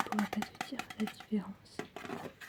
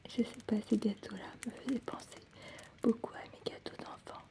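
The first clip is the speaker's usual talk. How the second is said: ASMR whisper. Acted. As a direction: whisper it close to the mic.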